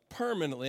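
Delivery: "permanently" set apart and weighted; stress on permanently. Real, not acted. Preacher asking how an outcast enters the covenant, "permanently" emphasized. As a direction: lean firmly on the word "permanently". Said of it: "I want to emphasize the word permanently".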